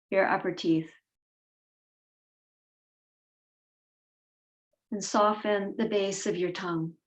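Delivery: unhurried meditation voice with long pauses between phrases; guided meditation. Real, not acted. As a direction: guide them gently inward, leaving space after each instruction.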